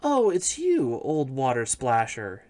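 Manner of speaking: princess voice. Acted. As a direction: lift into a girlish princess voice. Princess answers the frog.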